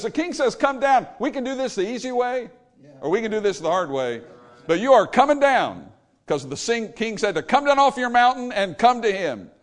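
a touch of the cop giving an ultimatum; tough captain. Retold or imitated. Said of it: "What he was saying is this".

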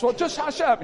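put-on high comic old-lady hushing; old lady's loud stage whisper; loud would-be whisper. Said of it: "They think they're whispering".

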